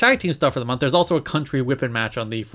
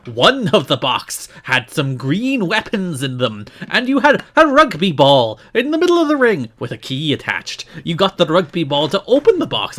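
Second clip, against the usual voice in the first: put-on drifting Scottish accent; 3 semitones higher, 5 dB louder than usual. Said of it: "I'm veered more to Scottish here".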